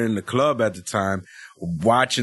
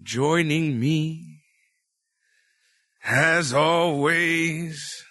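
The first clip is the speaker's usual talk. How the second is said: ring announcer; much slower than usual. Acted.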